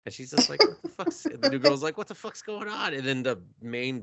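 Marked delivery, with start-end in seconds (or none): 0.6-1.2 very high, loud squawk; shocked outburst. Retold or imitated. Maid reacting to the offensive letter, shocked. 2.0-2.9 high-pitched, alarmed question; bewildered. Retold or imitated. New girl confused by the letter, bewildered.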